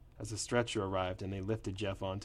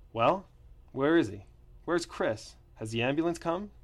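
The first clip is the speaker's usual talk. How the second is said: agitated; 6 semitones higher, 4 dB louder than usual. A narrator's reading. Boss arriving agitated.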